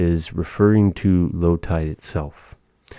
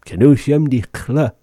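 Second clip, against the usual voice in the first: higher, lightly voiced papa; imitating papa; 7 semitones higher, 4 dB louder than usual. Papa on the river after drinking, lightly voiced. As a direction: mimic papa praising the water. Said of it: "And he goes".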